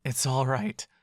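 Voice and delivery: hoarse, soothing reassurance; hoarse comfort through a sore throat. Acted. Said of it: "he says with a hoarse voice".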